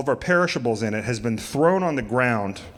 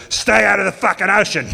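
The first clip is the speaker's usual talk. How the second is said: higher, louder laugh-through line; laughing punchline; 7 semitones higher, 6 dB louder than usual. Retold or imitated. Craig giving Jeff shark advice, loud laughing punchline. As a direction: deliver it grinning loud.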